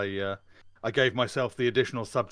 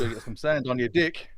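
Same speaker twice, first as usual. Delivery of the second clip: put-on South African accent; 3 semitones higher, 4 dB louder than usual. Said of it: "Why is there a South African accent?".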